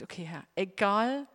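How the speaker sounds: low, giving up on God's will; resigned surrender. Retold or imitated. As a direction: let it go, tired of fighting. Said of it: "ich hab kapituliert".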